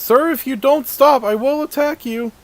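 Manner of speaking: high, loud guard warning; threatening guard. Acted. GM as guard threatening the fleeing player. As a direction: warn him with the sword drawn.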